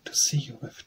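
whispered, sly answer; wolf whispering from under the nightcap. Acted. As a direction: breathe it so she leans closer.

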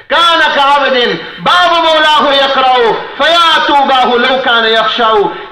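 rapid chanted Arabic verse; poem recitation. Acted. Preacher reciting poetry to the congregation, rapid chant. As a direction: recite the verse fast, in one breath.

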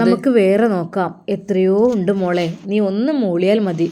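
put-on a mother soothing her upset girl; consoling mother.

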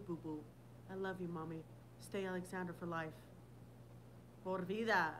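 soft, low, affectionate birthday wish; tender. Real, not acted. Mother to daughter on her birthday, tender.

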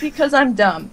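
giggling through the words; laughing self-mockery. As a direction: laugh at your own mistake as you say it. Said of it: "And I'm like".

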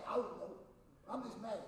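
low, quiet sulking answer; sulky mock reply. Preacher voicing a moody person who is just mad. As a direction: grumble it out like a moody adult.

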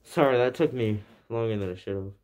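talking through cloth over mouth; muffled behind fabric mask; muffled by shirt. Real, not acted. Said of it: "what I said is that".

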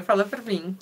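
unvoiced "Fala pra mim." whispered. Real, not acted. Whispered aside to a viewer.

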